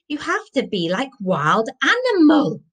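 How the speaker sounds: put-on high, rousing foreign-accented call; Viking shout. A narrator's reading. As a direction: teach it like an excited Viking. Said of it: "shouted Sigurd".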